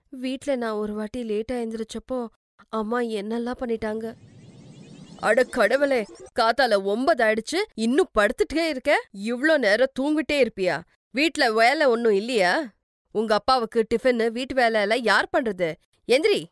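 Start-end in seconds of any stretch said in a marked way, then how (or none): 5.2-16.4 loud-edged, exasperated mother's scolding. Acted. Stepmother rousing the girl who slept till nine, scolding. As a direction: nag a lazy daughter out of bed.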